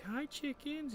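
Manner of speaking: high, sing-out hello; sweet high put-on voice; Danny greeting animals. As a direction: imitate an innocent animal lover's greeting. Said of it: "he was like".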